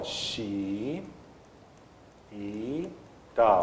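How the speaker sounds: "xi, i, tá" held long, with gaps between; syllable by syllable. Shown as a demonstration. Teacher showing a repeated vowel, syllable by syllable. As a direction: separate the doubled i in "xi, i, tá". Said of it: "não pode repetir vogal".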